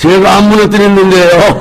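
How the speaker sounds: put-on very high-pitched, loud, innocent-sounding, protesting kid voice.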